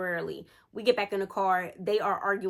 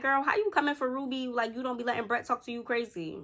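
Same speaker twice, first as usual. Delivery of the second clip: put-on indignant girl; 4 semitones higher than usual. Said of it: "So I was like".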